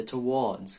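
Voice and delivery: towards in two syllables, "tuh-WAWDZ"; British, with final S. Shown as a demonstration. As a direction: say towards as to-WAWDZ, S sounded at the end. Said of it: "com S, tá?". ("towards" com S no final, "tu-uódz")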